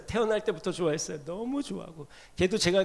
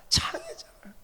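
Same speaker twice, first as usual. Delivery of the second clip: high repeat; 3 dB quieter than usual. Acted.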